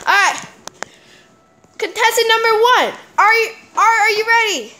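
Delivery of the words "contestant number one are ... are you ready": pumped-up ring announcer voice; fight announcer. Acted. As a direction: hype up the contestants. Kid refereeing a fight, announcer.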